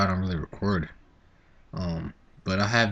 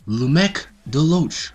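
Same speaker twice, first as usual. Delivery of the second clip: slow, drawn-out, higher and louder name call; pep rally announcer; 7 semitones higher, 7 dB louder, much slower than usual. Retold or imitated. Pep rally announcer calling his name, slow and booming. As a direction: stretch the name out like a stadium announcer. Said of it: "They were like".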